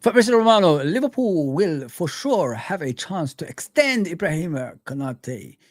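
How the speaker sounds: put-on a light touch of an Italian accent throughout; Fabrizio Romano's accent. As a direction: read the transfer news lightly, in an Italian accent. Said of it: "I did it with the accent of Fabrizio Romano".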